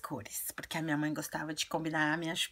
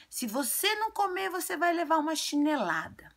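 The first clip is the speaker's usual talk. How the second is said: high mock-scolding mother, louder; squeaky threatening mom voice; playfully imitating a mother's threat; 11 semitones higher, 5 dB louder than usual. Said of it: "falou assim".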